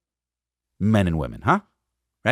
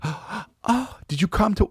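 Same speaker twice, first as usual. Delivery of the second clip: high, gasping mock-tearful question; hammed-up weepy, high voice; imitated crying; 10 semitones higher, slower than usual. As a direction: imitate someone looking up mid-cry. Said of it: "she's crying".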